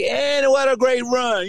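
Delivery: slow, lightly put-on play-by-play call; a hint of a smooth announcer; broadcaster voice. Imitating the announcer covering for him, slow. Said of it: "Mike Al should have been like".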